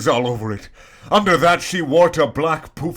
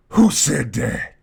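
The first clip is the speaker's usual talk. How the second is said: louder, slow demanding call; yell; 4 dB louder, slower than usual. Acted. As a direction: demand an answer from nowhere. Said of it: "yelled Mister Norris".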